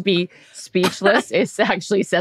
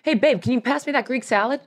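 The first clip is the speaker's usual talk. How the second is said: higher, oblivious casual asking; imitating Jarrett; 5 semitones higher than usual. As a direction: mimic him unaware of the fire, pitched up. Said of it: "the whole time's like".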